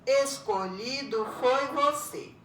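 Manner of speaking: "Escolhido foi você" slow, each syllable measured out. Shown as a demonstration. Teacher showing syllable division, "Escolhido foi você" slowly beat by beat. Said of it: "conforme a divisão silábica".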